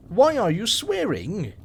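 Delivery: put-on high, startled little girl; shocked exclaim. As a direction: cry out in shock like a child. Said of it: "she exclaimed, shocked".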